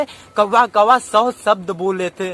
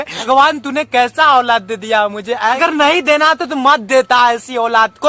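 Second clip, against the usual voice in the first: louder, fervent sermon delivery; impassioned preaching; 3 dB louder than usual. Acted. Preacher lecturing the congregation about honouring parents, fervent. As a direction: preach it hard to the crowd.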